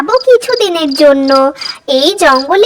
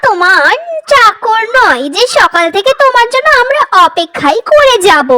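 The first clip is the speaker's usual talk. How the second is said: sarcastic scolding. Acted. Crow scolds the late mother.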